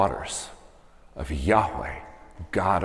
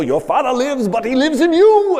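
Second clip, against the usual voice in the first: put-on much higher, louder cackling old monkey; Rafiki voice; 10 dB louder than usual. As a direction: proclaim it like a mad old sage. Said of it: "Rafiki does this whole".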